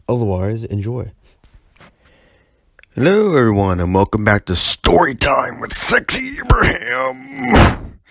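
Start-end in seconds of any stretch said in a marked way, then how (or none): 2.9-8.0 high whispered show-host hush; breathy whisper intro. Acted. Host whispering his show title to viewers. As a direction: whisper the show name like a secret.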